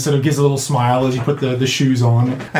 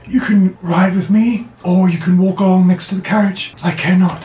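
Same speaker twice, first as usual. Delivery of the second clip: a lightly voiced driver who couldn't care less; indifferent driver; 4 semitones higher than usual.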